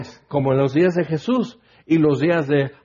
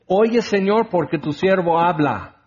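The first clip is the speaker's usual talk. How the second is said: reversed prayer. Shown as a demonstration. Preacher mocking a proud prayer to the congregation, bossy. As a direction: demand God's ear, lightly mocking. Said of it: "Es al revés".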